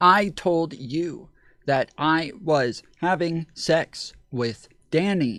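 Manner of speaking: very slow, drawn-out, machine-like robotic cadence. Mocking another speaker's way of talking, imitating robotic cadence. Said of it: "she talks like a robot".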